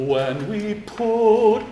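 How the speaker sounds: "put" with a strong burst of air on the P; popped P. Shown as a demonstration. Director shows the choir the popped P on "put". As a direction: explode the P in "put". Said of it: "explosion on p".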